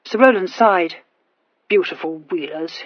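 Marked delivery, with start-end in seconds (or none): 1.7-2.8 soft, lower, wistful murmur; a mild, sad murmur; murmured sadly. A narrator's reading. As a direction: sigh it out over the horses. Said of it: "he murmured sadly".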